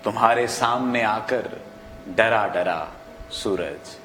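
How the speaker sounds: slow, measured verse with long pauses; poetry recitation. Acted. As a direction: let each phrase fall and hang before the next. Host recites opening poem.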